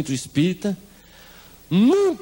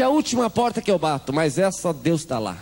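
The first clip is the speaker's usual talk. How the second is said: excited. Retold or imitated. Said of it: "chegou mais animada e disse".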